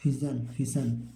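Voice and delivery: फिजन with a j sound, then फिशन with a sh sound; two pronunciations. Shown as a demonstration. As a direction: contrast फिजन and फिशन slowly. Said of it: "या फिशन भी पढ़ सकते हैं".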